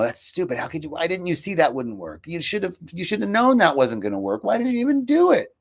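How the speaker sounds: rising harsh self-criticism, building to a high outburst; berating inner voice; self-scolding. Retold or imitated. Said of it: "I had this aggression against myself".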